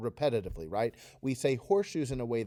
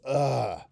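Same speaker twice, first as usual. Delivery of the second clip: ugh; 4 dB louder than usual. Shown as a demonstration. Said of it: "What the kids came up in class was".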